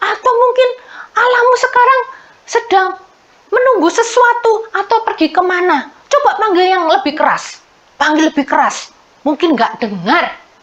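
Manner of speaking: high, mocking, scornful jeering tone. Telling children a story, acting out a taunt at Baal's prophets: mocking taunt. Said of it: "Diejek begitu".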